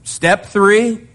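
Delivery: a lightly voiced relaxed Lord; casual God voice. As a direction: play God breezily listing the plan. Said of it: "He gives them a simple three-part plan".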